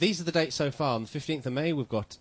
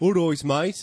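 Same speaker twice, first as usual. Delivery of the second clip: Birmingham accent, pitched much higher; 7 semitones higher, 8 dB louder than usual. Contrasting regional accents for listeners, the speaker says a phrase in a Birmingham accent. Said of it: "this is a Birmingham accent".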